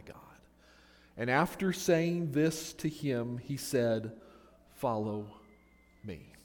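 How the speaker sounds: measured, reverent Bible reading with pauses; Scripture reading. Acted. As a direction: read the Gospel aloud, unhurried, letting phrases settle. Reads Scripture to the congregation.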